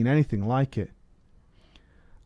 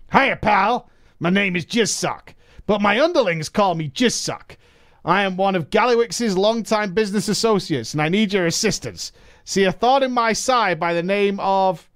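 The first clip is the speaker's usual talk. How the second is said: higher, scheming goblin businessman; 8 semitones higher than usual. Acted. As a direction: pitch it up like a slick goblin crook. Reads goblin's letter in character.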